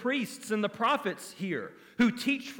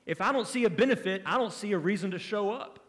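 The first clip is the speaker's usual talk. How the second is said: selfish excuse; faster than usual. Retold or imitated. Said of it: "they say".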